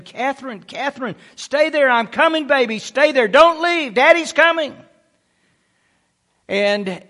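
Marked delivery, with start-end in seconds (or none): 0.0-4.8 high-pitched calling without full volume; mock yell. Father calls down to daughter from floor three, mock yell. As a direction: imitate yelling down to a child, held back. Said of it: "I'm yelling and I'm saying".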